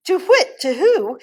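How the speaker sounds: high hooting owl cry; high frightened owl hoots. Acted. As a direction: hoot it like a startled owl.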